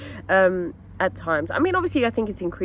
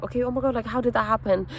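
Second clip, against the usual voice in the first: higher, mildly alarmed question to a partner; curious concern; 4 semitones higher, faster than usual. Acted. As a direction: ask with concern, lightly acted. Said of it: "becomes curious and is like".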